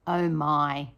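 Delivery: loud, then a slow wince; mock dismay. Teacher pretending the neighbour's singing hurts her ears. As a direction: pull a face at awful singing.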